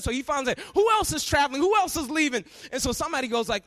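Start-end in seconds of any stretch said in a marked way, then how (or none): 0.7-2.4 mock agitated questioning; upset passenger. Upset passenger hunting for another flight, agitated. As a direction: fire off questions like a fed-up customer. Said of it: "he's getting so upset".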